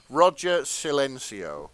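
laughing slow and high. Real, not acted. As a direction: say the name through laughter. Laughs saying name.

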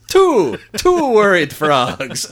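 very high, loud, slow frog voice; Robin counting. Retold or imitated. Robin joins the Count's counting, high frog voice. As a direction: shout the number like a small frog. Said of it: "Robin walks up and says".

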